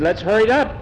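high, pushy order; impatient farmer. Acted. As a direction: hurry him along, impatient.

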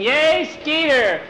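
high, drawn-out mock cheer; imitated cheering. Boys in the audience screaming for Skeeter, imitated cheer. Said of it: "the boys in the audience were just a screaming".

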